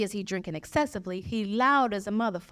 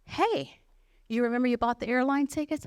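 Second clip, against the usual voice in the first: white friend voice; 4 semitones higher than usual. Retold or imitated. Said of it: "My white girl kicks back in".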